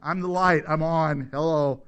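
loud mock announcement; light announcing itself. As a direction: bellow it like a lamp showing off. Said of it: "Did the lights have to say".

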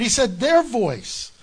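'their' stressed, drawn out slowly; stress on their. Shown as a demonstration. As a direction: insist slowly on the word 'their'. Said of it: "That's separate".

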